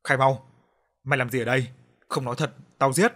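threatening the prisoner through gritted teeth; angry pressed-out threat. A narrator's reading. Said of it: "Nó gằn giọng".

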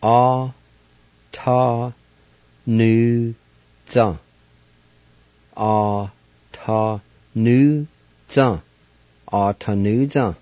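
"A, ta, nu, za" spoken in separate clear syllables; Cherokee pronunciation. Shown as a demonstration. Teacher repeating "A, ta, nu, za" for students, careful syllables. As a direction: sound out "A, ta, nu, za" slowly for the class. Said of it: "it's pronounced like this".

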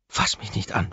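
mild hiss. A narrator's reading. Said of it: "faucht sie".

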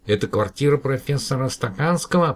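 a mild call into the receiver. Acted. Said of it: "прокричал Мананам в трубку".

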